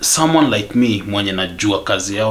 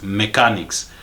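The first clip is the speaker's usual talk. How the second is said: "mechanics" set apart and stressed; "mechanics" said pointedly as a word on its own; emphasis on mechanics. Real, not acted. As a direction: hit the word "mechanics" firmly. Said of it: "I'm going to emphasize this".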